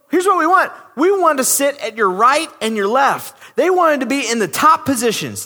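brothers bossing Jesus for top seats; entitled attitude. Retold or imitated. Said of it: "this attitude".

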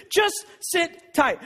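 drawn-out, dry repeat of the advice; slow mocking quote. Pastor mocking the leaders' email, slow and dry. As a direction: drag each word out with scorn. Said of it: "is what it said".

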